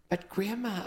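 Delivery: understated startled objection; sputtering. Acted. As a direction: caught off guard, a light sputter. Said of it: "I sputtered".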